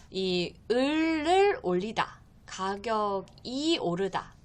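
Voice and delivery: slow, with 을 and 이 drawn out; careful teacher stress on 을 and 이; particles emphasized. Shown as a demonstration. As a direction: stretch the particles 을 and 이 apart for learners. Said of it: "이렇게 쓰는 것을 잘 확인하세요".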